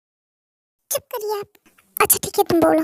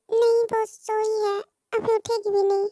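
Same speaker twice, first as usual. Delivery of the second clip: hushed; 2 semitones higher, 6 dB quieter than usual. Acted. Sister is asleep nearby.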